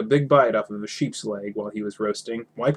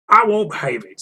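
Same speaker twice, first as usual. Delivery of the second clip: angry troll; 9 semitones higher, 6 dB louder than usual. Acted. Troll quarrel.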